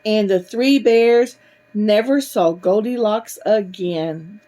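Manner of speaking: put-on measured, expressive reading to children; animated bedtime-story narration; storybook reading. A narrator's reading. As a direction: read a picture book aloud to little ones.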